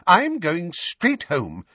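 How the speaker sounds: put-on high, fussy old lady; flustered elderly neighbour; old woman voice. Mrs Figg voiced.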